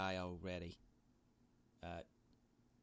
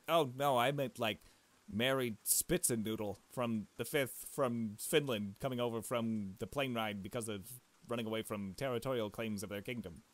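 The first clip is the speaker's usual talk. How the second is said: mock grand title. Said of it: "she was gonna say".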